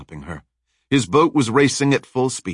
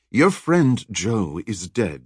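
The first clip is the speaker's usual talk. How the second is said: slow, cold villainess over the radio; slower than usual. Acted. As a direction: deliver it with icy calm, slowly. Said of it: "the voice said coldly".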